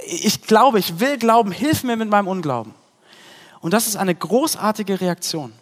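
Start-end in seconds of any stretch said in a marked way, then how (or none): 0.1-2.7 loud pleading cry of a desperate father. Acted. Desperate father crying out to Jesus, loud. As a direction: call out, begging for help. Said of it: "reagiert und ruft und sagt".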